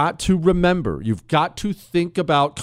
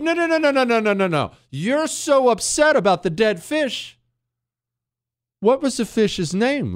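mock soothing; 9 semitones higher than usual. Dad calls out son's fake crying.

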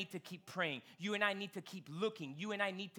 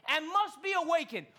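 mocking reading; 7 semitones higher, 4 dB louder than usual. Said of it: "Elijah mocked them, saying".

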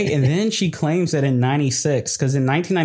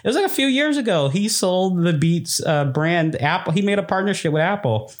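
excited; 7 semitones higher than usual. Real, not acted. Defensive, excited telling.

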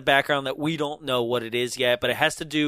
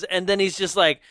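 ordinary talk, nothing marked

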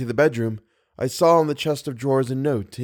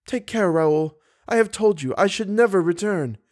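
put-on higher, sharp young woman; raised, emphatic warning; cruel warning; 7 semitones higher than usual. A narrator's reading. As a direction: warn him off coldly. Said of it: "said the young girl cruelly".

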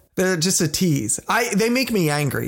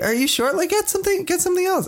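high, insistent mock pleading; pushy urging; 13 semitones higher, faster than usual. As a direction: push her to order more, jokingly. Urging date to order more.

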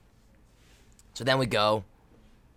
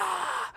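held-back voiceless roar; mock hype yell. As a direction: imitate a team yell without full volume. Reenacts a hype yell at teammates.

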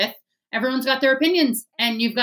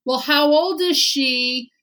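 nosy stranger; 3 semitones higher, 3 dB louder than usual. Retold or imitated. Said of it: "she was just sort of like".

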